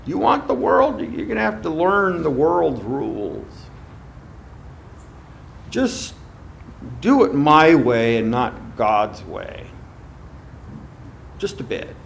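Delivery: devil talking. Acted. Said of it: "this is how the devil talks".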